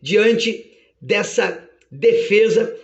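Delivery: measured, lightly acted verdict; a hint of a solemn judge; judge's ruling. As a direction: pronounce it with judicial gravity. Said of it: "meritíssimo Deus bate o seu martelo e diz".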